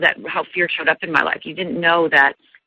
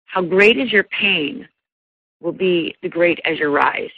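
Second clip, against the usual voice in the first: wise teacher; slower than usual. Retold or imitated. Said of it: "And she said to me".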